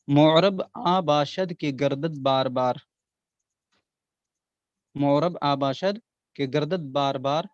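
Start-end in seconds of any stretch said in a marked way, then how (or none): 0.1-2.8 slow verse recital. Shown as a demonstration. Teacher reciting the couplet to students, slow and measured. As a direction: recite the Persian couplet slowly and evenly. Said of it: "ये शेर याद कर लें".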